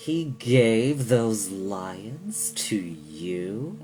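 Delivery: menacing, ominous, sinister tone with drawn-out you. Narrator reads a question from an unseen speaker, in a sinister voice. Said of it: "Asked a sinister voice".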